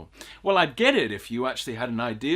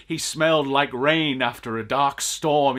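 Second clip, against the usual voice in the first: mock poetic line; 4 dB louder than usual. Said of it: "they're saying something like".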